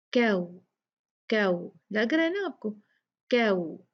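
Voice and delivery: क्याऊ with a gentle gliding aw; soft leen. Shown as a demonstration. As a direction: glide softly through the aw of क्याऊ. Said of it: "बहुत प्यार से, बहुत नरमी से". (क्याऊ नरमी से)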